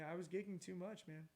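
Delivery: dry mouth, a little parched. Real, not acted. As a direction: talk through a dry throat. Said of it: "Sorry, I'm a little parched".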